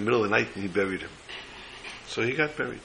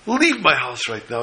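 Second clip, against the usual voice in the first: mock angry yell; 3 semitones higher, 5 dB louder than usual. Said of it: "And he would scream".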